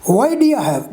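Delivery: "do you" as "d'ya"; reduced form. Shown as a demonstration. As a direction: link "Why do you" with a weak "ya". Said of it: "Reduced form".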